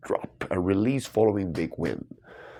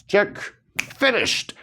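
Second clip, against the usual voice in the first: excited finish; 11 semitones higher, 3 dB louder than usual. Real, not acted. Finishing the crossword puzzle.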